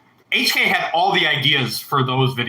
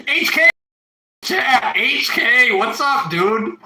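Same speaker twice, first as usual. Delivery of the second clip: higher, thrilled shout-out to a friend; excited greeting; 8 semitones higher, slower than usual. Real, not acted. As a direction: hail him excitedly, pitched up. Spots old friend in chat.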